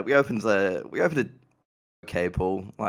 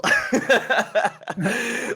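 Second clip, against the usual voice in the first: high, loud burst of real laughter; 5 dB louder than usual. Real, not acted. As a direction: crack up at your own blunder. Laughing at own story.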